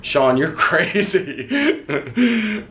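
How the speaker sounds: dad's line squeaked out through laughter; high, slow, laughing it out. Retold or imitated. Son quoting his eye-rolling dad, breaking into laughter. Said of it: "rolling his eyes going".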